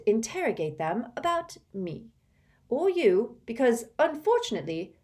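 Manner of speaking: put-on high, hard-pressed girl's voice; a girl scolding her friend who doubts her; fierce. A narrator's reading. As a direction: lay it out with tight fierce resolve. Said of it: "a rather fierce look".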